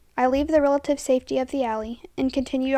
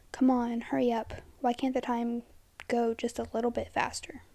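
a soft whispered inner plea; will the clock on under your breath; hushed impatient thought; 7 dB quieter than usual. Acted.

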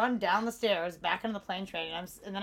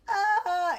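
retold crying; 11 semitones higher, 8 dB louder than usual. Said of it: "I'm crying".

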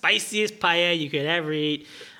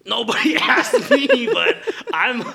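laughing through the words, higher and louder; giggly admission breaking into laughs; 8 semitones higher, 6 dB louder than usual. Real, not acted. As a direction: break up while confessing. Laughing confession mid-scene.

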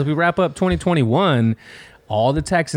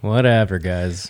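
whispering; 6 semitones lower, slower than usual. Pretend. Answers the secret friends.

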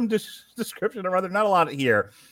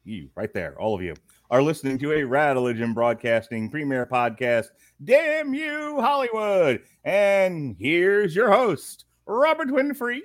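ringmaster; 6 semitones higher than usual. Pretend. Podcast intro announcer.

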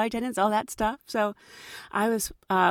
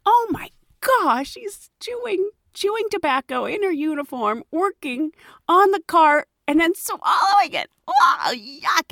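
retold disgust; 8 semitones higher, 3 dB louder than usual.

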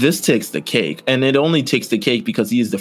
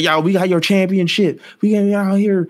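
high-pitched West Virginia country holler; West Virginia accent; 10 semitones higher than usual. Acted. Thugs showing off the belt on Instagram Live, West Virginia accent. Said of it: "That was much West Virginia accent".

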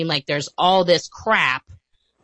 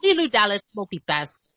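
Leeloo quote; 4 semitones higher than usual. Retold or imitated. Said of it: "she's like".

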